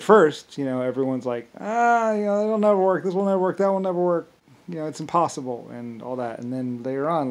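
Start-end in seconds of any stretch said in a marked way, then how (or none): 1.6-5.7 much higher, dismissive whine; mock naysayers. Imitating people saying it will never work, mocking whine. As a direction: caricature the doubters. Doubters mocked in retelling.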